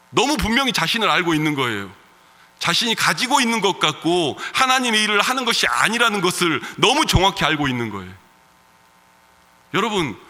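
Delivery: usual speaking voice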